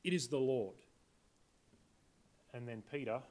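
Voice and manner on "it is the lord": awed realization. Retold or imitated. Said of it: "He said".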